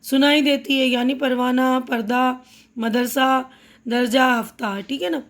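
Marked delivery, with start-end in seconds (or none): 1.1-4.8 پروانہ، پردہ، مدرسہ، درجہ، ہفتہ each ending on an aa sound, the ہ silent; words from پروانہ to ہفتہ said with a final aa, no h. Shown as a demonstration. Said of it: "آخر میں آ کی آواز سنائی دیتی ہے".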